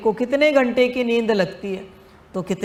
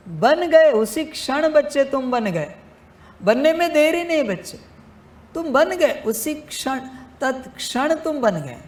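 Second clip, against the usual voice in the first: joyful exclamation; 7 semitones higher than usual. Real, not acted. Guru exulting to his disciples, higher and excited. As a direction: burst out in a guru's joy.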